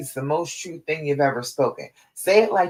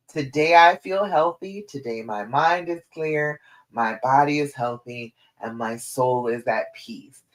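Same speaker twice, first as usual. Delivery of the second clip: settled, sincere affirmation, dropping lower toward the end; with authority; 3 semitones lower than usual. Shown as a demonstration. Coach repeating the affirmation she loves, with authority. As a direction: say it with all your heart. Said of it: "Say it with authority".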